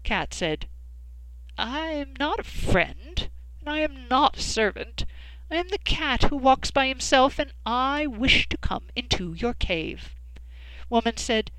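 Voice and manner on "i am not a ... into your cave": proud cat. Acted. Cat declares himself.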